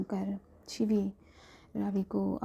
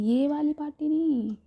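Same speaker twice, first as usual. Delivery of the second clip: higher, louder sly tease; hint at the other party; teasing; 7 semitones higher, 6 dB louder than usual. Acted. Friend slyly teasing about a different party, teasing.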